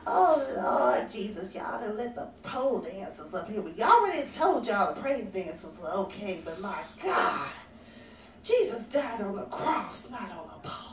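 a hint of old Sister Bessie fretting; church lady. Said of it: "Sister Bessie usually is her name".

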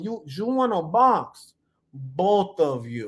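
slow, put-on Italian accent; Italian accent attempt, stretching each word. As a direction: try a drawn-out mock Italian accent. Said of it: "say it in an Italian accent".

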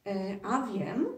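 slow, teasing knowing reply; hint at a secret; a touch of mystery; mysterious. Acted. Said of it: "odpowiedział tajemniczo Boguś".

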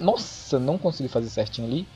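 ordinary talk

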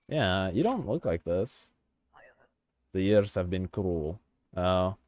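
mock-stern guard in Eastern European accent; put-on Eastern European accent. Inspector turning away a traveller, put-on Eastern European accent. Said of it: "gonna stop doing the accent".

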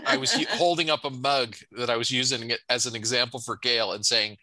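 talking through real laughter; laughing. Real, not acted. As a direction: chuckle while explaining the joke. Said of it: "I'm laughing because".

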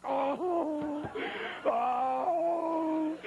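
a yelp of dismay; panicked cry. Retold or imitated. Hiding preacher panicking as women talk nearby.

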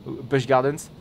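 "Busch Gardens" slow, drawn out in a hammed-up franchouillard French accent; exaggerated French accent. Shown as a demonstration. Streamer repeats the park name to viewers, slow, in a hammed-up franchouillard French accent. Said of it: "mon accent franchouillard".

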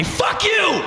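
high-pitched comic rage yell; drawn-out, hammed-up angry shout; furious retort. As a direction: scream it back at the rejection. Acted retort to being rejected.

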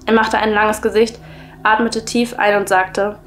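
measured, even story-reading voice; story narration. A narrator's reading. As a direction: read the creepy tale aloud, clearly and evenly. Reads a creepy story aloud.

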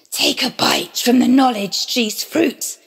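a lightly voiced sly serpent; tempting serpent. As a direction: coax her gently, a hint of the snake. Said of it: "he said".

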